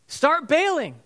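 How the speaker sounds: high, loud acted command; panicked yelling. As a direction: shout the order in a sinking boat. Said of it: "This is a guy holding a bucket, shoves it in his face".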